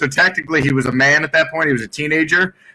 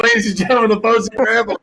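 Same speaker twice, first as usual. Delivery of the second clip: announcer intro; 5 semitones higher, faster than usual. Retold or imitated. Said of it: "I was like".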